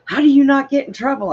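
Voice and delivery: put-on high, fast, whiny kid brother; brother's question. Brother asking his sister how she never gets caught, high and fast. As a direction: squeak it out, fast and high, like a baffled little brother. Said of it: "and he's like".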